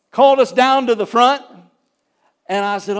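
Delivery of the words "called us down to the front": emphatic. Real, not acted. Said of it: "preacher's emphatic telling".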